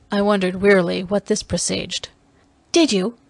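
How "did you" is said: higher-pitched impassioned demand; passionate cry. Acted. Dalisa interrogating her prisoner, passionate demand. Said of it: "in a passion she cried".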